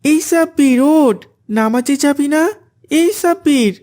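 insistent wake-up call; calling loudly. Acted. Abdullah waking Sabbir for prayer, calling out. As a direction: call a sleeping friend to get up. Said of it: "তাকে জোরে জোরে ডাকতে থাকে".

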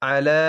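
আলা with its final vowel drawn out; one-alif elongation. Shown as a demonstration. Teacher showing a vowel stretch, আলা with final vowel lengthened. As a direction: hold the last "aa" of আলা for one beat. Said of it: "এখানে এক আলিফ টান হবে".

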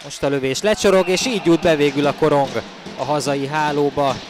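excited hungarian sports commentary. Real, not acted. Goal call in hockey highlights.

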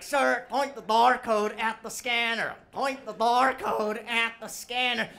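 slow, spelled-out instructions to an idiot; condescending clerk. Retold or imitated. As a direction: talk down to him slowly. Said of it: "So she's like".

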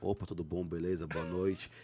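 deep smooth pickup greeting; voice dropped a tone. Shown as a demonstration. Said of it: "Eu baixo o tom".

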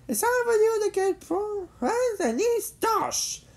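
high-pitched battle cry, slowing down; yelled challenge. A narrator's reading. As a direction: stretch out the final threat up high. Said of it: "Jimmy yelled".

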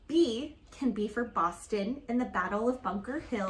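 lively picture-book read-aloud; reading to children. Acted. Mom reading an alphabet book to her daughter, storytelling voice. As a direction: read it like a storybook for a little girl.

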